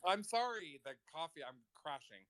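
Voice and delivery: yawning mid-sentence. Real, not acted. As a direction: talk through a yawn. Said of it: "No yawning".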